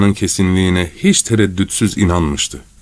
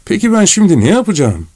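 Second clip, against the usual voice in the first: high-pitched, helpless lament; acted despair with soaring pitch; desperate; 10 semitones higher than usual. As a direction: wail the question hopelessly. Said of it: "sonra umutsuzca".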